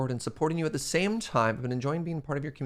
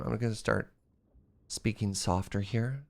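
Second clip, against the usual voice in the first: softer; 3 semitones lower, 5 dB quieter than usual. Real, not acted. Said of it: "made me lose my voice".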